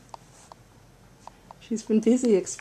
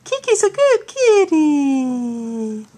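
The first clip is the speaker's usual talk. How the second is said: slow cooing praise; 4 semitones higher, slower than usual. Real, not acted. Praising the cat.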